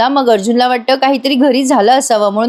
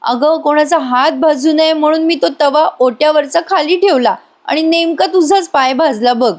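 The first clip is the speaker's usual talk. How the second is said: a touch of overdone sorry, slightly higher; fake dramatic apology; 4 semitones higher than usual. Priya fakes an apology to burnt Sayali, lightly hammed-up. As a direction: ham up a false apology. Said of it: "Priya लगेच नौटंकी करत म्हणते".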